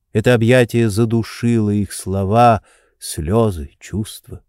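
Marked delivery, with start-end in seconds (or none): none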